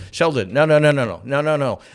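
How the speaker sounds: mock Penny cutting Sheldon off; Penny protesting. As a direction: stop him, exasperated. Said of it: "And she goes".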